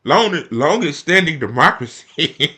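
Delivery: slow, loud scornful echo; mocking repeat. Vlogger mocking Bernie's claim of longest democracy, scornful echo. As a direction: drag the phrase out in scorn.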